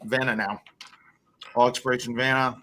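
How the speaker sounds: put-on English accent. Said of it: "Worst English accent ever".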